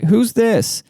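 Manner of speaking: high-voiced grandma impression. Grandma asking for the third time, high grandma voice. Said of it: "She asked me three times".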